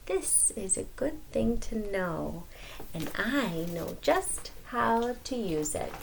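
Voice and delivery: soft, sly scheming. Acted. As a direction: plot under your breath. Anansi plotting.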